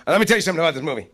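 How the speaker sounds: loud, high-pitched mock rant; retold tirade. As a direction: rant like an overbearing director laying down the law. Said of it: "he's given me this tirade".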